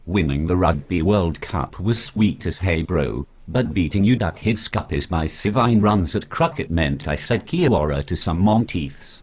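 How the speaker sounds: put-on laid-back broad New Zealand accent; thick kiwi twang, easygoing. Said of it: "well-known sheep shagger Martin Crowe".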